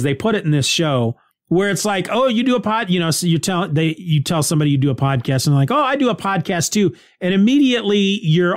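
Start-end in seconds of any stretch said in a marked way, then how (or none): 2.1-2.9 a touch of higher, fake-polite surprise; mock surprise. Mock reaction to fellow podcaster. 5.7-6.9 lightly chirpy, higher imitated podcaster; chirpy reply.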